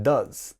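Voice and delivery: "does" with a short uh vowel; clear vowel contrast. Shown as a demonstration. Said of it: "notice the difference in pronunciation".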